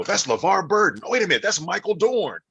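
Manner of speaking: high, loud and fast realization; excited recognition. Retold or imitated. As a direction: gasp at recognizing the voice. Retold guessing voice actors.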